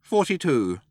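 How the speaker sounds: high little mouse voice; interrupting mouse. A narrator's reading.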